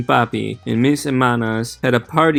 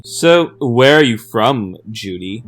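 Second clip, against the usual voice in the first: curious probing; 5 dB louder, slower than usual. Acted. Classmate probing her origins.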